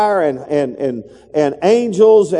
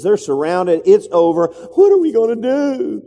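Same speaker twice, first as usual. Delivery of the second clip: worried servant; 4 semitones higher than usual. Retold or imitated. Servant panics, retold.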